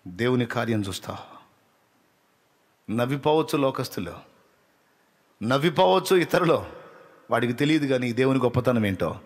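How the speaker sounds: ordinary delivery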